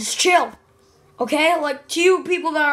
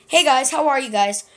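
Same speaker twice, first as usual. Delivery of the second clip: light Canadian accent; a touch of Canadian accent; 3 dB louder than usual. Shown as a demonstration. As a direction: greet in a mild Canadian accent. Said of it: "Okay, Canadian accent".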